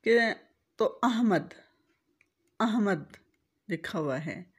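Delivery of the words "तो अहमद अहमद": अहमद with zabar on alif, ha sakin; अहमद as AH-mad, clear open a; correct Ahmad. Shown as a demonstration. Teacher repeating the correct अहमद to students. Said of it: "सही तलफ़ुज़ में अलिफ पर ज़बर".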